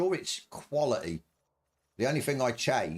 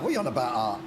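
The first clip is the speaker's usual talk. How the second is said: talking through a mouthful of food; words round a bite of food; mouth full; 2 semitones lower, much faster than usual. Real, not acted. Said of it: "Talking with my mouth full".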